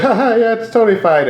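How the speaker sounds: high-pitched mock breezy drunk; trashed club owner. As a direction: imitate a drunk owner laughing it off, voice up. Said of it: "he's just trashed".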